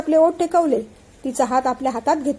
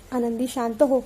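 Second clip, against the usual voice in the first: soothing; 4 dB quieter than usual. Acted. Husband soothes frightened wife.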